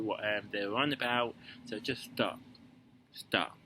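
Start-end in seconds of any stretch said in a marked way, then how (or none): 1.7-3.6 a light, unplanned American accent. Real, not acted. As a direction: slip into a mild American accent. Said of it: "I don't know why I'm using an American accent".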